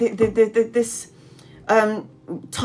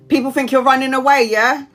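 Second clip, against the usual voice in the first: louder, higher read of a comment; emphatic read; 4 semitones higher, 4 dB louder than usual. Real, not acted. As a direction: read it out with a punch.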